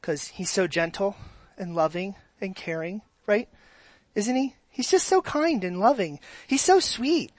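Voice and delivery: sugary, cooing praise of a gentle God; mock sweet softie God. Shown as a demonstration. Pastor mocking how people soften God, cooing sweetly. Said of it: "we wanna make God feel like a softie".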